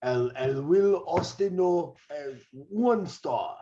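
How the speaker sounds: slow, drawn-out mock wrestler accent, pitched a touch up; mock Masa-style accent. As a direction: play a lightly put-on Spanish-flavoured wrestler voice. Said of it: "you just sound like fat ass Masa now".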